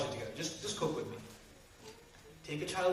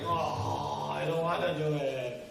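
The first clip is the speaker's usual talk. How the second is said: put-on whiny kid; 3 semitones lower, much slower than usual. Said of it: "they'll be like".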